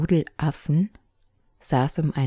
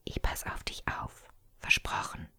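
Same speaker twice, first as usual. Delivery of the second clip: whisper; 11 dB quieter than usual. A narrator's reading. Sister whispers comfort to her frightened brother, whispered. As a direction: soothe him without a sound. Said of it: "flüsterte sie".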